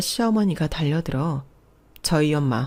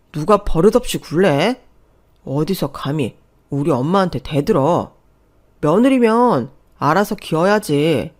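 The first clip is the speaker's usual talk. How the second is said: mildly angry, indignant reproach; blustering scolding; 5 dB louder than usual. Acted. Husband rebukes wife after slapping her, blustering. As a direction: scold her to cover the shock.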